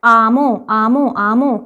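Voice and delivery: "आमो" run together with no h; joined-up pronunciation. Shown as a demonstration. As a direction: say "आमो" as one smooth word, m gliding into o. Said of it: "इसको भी हम पढ़ेंगे".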